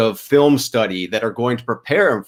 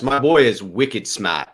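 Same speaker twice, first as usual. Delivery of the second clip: put-on a light Boston accent on wicked smart; playful Boston accent, wicked smart; 2 semitones lower than usual. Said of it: "okay to do a Boston accent there".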